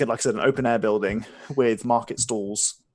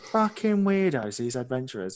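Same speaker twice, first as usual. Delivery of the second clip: muttering innkeeper. Acted.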